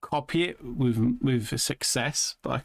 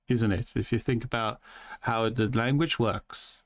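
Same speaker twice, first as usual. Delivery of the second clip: put-on twang with careful inflections; lightly held twangy accent impression; imitated twangy accent. Shown as a demonstration. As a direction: keep up another man's twangy accent. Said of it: "hearing talking like that".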